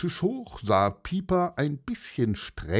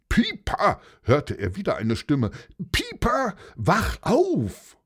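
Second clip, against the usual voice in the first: calling to wake; 7 semitones higher, 3 dB louder than usual. Acted. Waking friend calls him.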